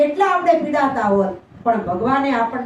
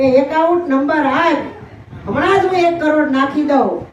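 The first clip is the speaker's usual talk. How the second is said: laughing offer; 2 semitones higher than usual. Acted. God teasing the devotee with offer.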